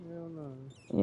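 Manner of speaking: disbelief. Real, not acted. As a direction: react in loud disbelief. Reacting to casino name.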